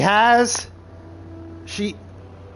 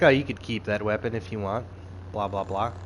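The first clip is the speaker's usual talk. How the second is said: weird Sith voice; 7 semitones lower, 6 dB quieter than usual. Retold or imitated. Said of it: "he talks in, like, this weird voice too".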